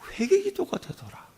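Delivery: hushed, high whisper; whispered realization. Acted. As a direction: breathe it out as a revelation. Climax of repentance story.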